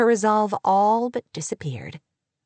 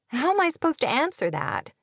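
higher-pitched exclamation of disbelief; exclaiming; 6 semitones higher than usual. A narrator's reading. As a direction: exclaim it, pitched up, at a nosy question. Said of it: "Kate exclaimed when she realized".

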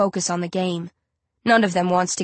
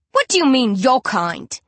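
snapping; 4 semitones higher, 3 dB louder than usual. Acted. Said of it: "someone snaps".

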